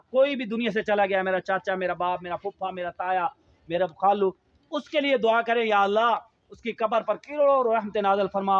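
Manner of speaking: a lightly voiced supplication; prayer. Shown as a demonstration. Teacher models a prayer for a dead relative. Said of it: "اللہ سے کہیں".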